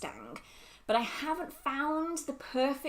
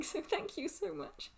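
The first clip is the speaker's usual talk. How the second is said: soft thanks; 7 semitones higher, 7 dB quieter than usual. Real, not acted. Thanks, emotional.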